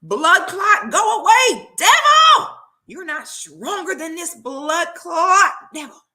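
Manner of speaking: loud, high shouting prayer command; shouted, rising declaration against the devil; fervent healing declaration. Retold or imitated. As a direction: rebuke the devil at full voice like a preacher. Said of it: "She said".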